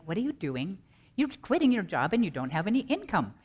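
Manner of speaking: lightly voiced inner worrier with swooping pitch; a touch of fretful, questioning self-doubt; fear bunnies. Inner fear questioning the speaker about quitting a job, lightly voiced fretting. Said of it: "You ever have the fear bunnies?".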